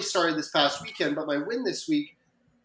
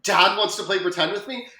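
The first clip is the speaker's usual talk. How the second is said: put-on surprised child; 4 semitones higher, 3 dB louder than usual. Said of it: "she just was taken aback".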